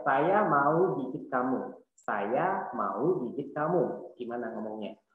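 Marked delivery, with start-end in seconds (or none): 0.1-1.8 slow model sentence. Shown as a demonstration. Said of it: "Satu lagi misalnya". 2.0-4.1 slow model sentence. Shown as a demonstration. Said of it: "Satu lagi misalnya".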